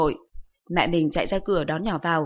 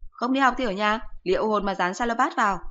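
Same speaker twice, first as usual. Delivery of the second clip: voiced higher, a sharp nagging mum; higher-pitched mocking mother voice; scolding mother; 3 semitones higher than usual. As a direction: scold the son like an exasperated mother. Mother warning son.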